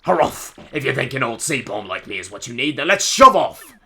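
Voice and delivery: loud, rousing seaman's bluster; rally the crew with hammy gusto; hearty old sailor. Acted. Sailor rallies to join party.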